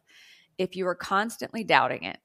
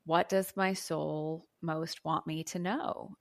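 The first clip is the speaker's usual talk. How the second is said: gentle question; 4 dB quieter, slower than usual. Shown as a demonstration. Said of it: "to sit down and say".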